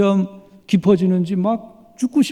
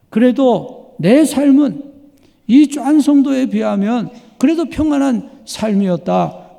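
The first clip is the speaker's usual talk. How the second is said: listener's inner thought; 5 semitones higher than usual. Retold or imitated. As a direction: voice the congregation's relieved thought. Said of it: "그렇게 생각하실지 모릅니다".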